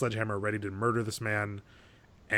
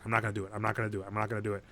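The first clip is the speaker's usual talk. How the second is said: low, softer repeated resolve; muttered self-persuasion; 3 semitones lower, 6 dB quieter, much faster than usual. Retold or imitated. Man trying not to think about her, muttered resolve. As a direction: imitate him quietly talking himself out of it. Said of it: "him not thinking about her anymore".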